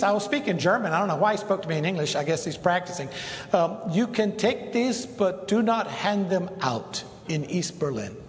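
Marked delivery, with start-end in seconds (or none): 3.9-8.2 the major. Retold or imitated. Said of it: "He said, uh".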